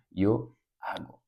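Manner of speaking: "yo hago" despacio, modelo claro; forma correcta. Shown as a demonstration. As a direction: di "yo hago" lento y nítido. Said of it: "el primero se cambia y digo". ("yo hago" pronunciado como ejemplo)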